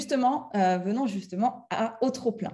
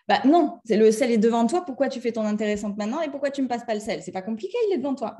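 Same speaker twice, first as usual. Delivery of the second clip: rapid irritated rant; faster than usual. Pretend. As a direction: fire it off fast, exasperated. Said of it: "vous pétez un câble". (s'agace et déballe tout vite)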